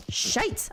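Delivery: "shite" rhyming with kite; Scottish-style exclamation. Retold or imitated. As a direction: exclaim "shite" with a long eye vowel. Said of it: "that's from John".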